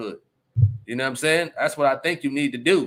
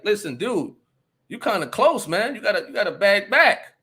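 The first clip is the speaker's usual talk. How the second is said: firm warning; 4 semitones higher than usual. Retold or imitated. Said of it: "I came with some authority".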